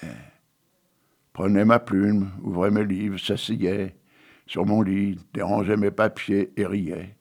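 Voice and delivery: solemn, measured poetry reading; poem recitation. Acted. Reciting Victor Hugo poem.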